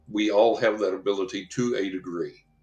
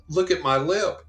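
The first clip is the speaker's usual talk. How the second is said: "look at my lip" rising high and louder in delight; excited waitress; 9 semitones higher, 4 dB louder than usual. Retold or imitated. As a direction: retell her thrilled cry, pitch jumping up. Waitress shows healed lip.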